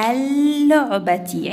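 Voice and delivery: اللعبة slowly with a long held l; doubled lam. Shown as a demonstration. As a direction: hold the ll in اللعبة without a break. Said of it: "عندي شدة".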